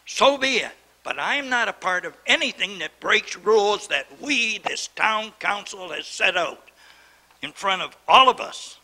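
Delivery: a council chair losing his temper over broken rules; getting worked up. Real, not acted. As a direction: push back hard, voice rising with anger. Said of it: "And I'm getting worked up".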